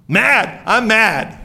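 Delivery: mildly hammed-up sulky anger; Naaman, mad. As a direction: play at being stubbornly cross. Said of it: "He just stayed mad".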